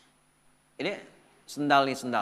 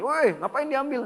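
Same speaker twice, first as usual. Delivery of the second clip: a higher, slow, hammed-up protest; mock angry parking attendant; 10 semitones higher, 3 dB louder, slower than usual. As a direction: play the upset attendant, half in jest. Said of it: "langsung marah".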